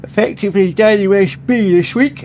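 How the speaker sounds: talking through a yawn. Real, not acted. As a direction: yawn while saying it. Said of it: "Excuse me for yawning".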